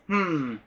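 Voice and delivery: short low "hmm" imitation; imitated low hum. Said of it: "a low".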